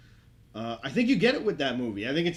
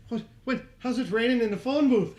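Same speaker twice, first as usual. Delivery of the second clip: laughing mock Farrell; 10 semitones higher, 5 dB louder than usual. Colin Farrell voiced, laughing.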